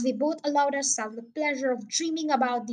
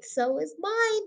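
higher, slow, gentler repeat; softer echo; 6 semitones higher, slower than usual. A narrator's reading. Father repeats it to Danny, softer and slow. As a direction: let the second one fall back, savouring. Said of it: "he cried".

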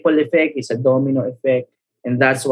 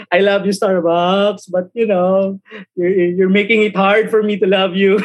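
laughing mock plea; 3 semitones higher than usual. Real, not acted.

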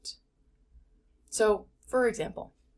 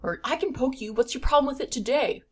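raised, louder mock-defensive comeback; defensive retort; 5 semitones higher, 5 dB louder than usual. Wife retorting to her husband, louder and defensive. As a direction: snap back, feeling poked and offended. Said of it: "I wanted to fight back and be defensive".

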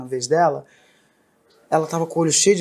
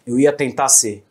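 grumpy dad; 5 semitones lower than usual. Retold or imitated. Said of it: "Ele assim, ó, bravo".

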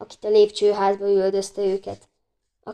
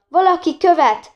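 high, loud shriek for help; 8 semitones higher, 6 dB louder than usual. A narrator's reading. Woman in a dressing gown fleeing a pursuer, shrieking. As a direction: shriek it out, falling off at the end. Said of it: "visította".

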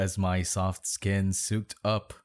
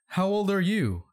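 high-pitched hammed-up flirting; flirty; 11 semitones higher than usual. A narrator's reading. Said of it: "Annabeth asked flirtily".

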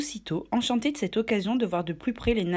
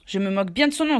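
cry out; 4 dB louder, faster than usual. Acted. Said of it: "s'écria Silver".

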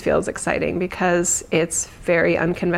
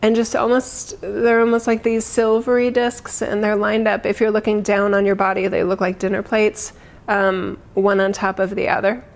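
guided meditation. Acted. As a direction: ease them gently into calm. Leads a meditation.

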